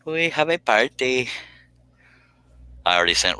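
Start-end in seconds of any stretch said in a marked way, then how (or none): 0.1-1.3 high and slow, drawn-out party call; slow sing-song. Real, not acted. Host declaring the party has started, slow high chant. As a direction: stretch it out like a little chant.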